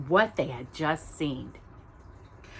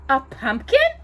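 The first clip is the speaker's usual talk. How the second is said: doubtfully; 7 semitones higher, 6 dB louder than usual. Acted. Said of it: "Cinderella repeated doubtfully".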